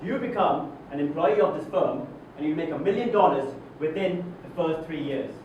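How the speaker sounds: emphatic repeat. Acted. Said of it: "Let me repeat that for you".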